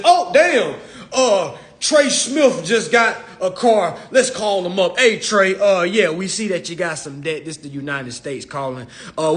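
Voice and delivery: imitating a friendly government agent on the phone; playful fake official calling to check in; laughing mock call from the United States; mock government caller.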